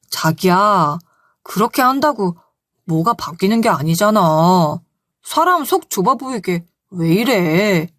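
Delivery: mildly condescending husband coaxing his wife; coaxing like to a child. Retold or imitated. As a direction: talk her down like soothing a fussy child. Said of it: "아이 달래는 듯한 말투로".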